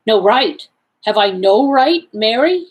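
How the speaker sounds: unsteady. Acted. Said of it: "he said unsteadily".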